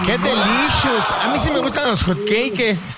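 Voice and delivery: excited shout. Real, not acted. Cohost cheers about hotcakes.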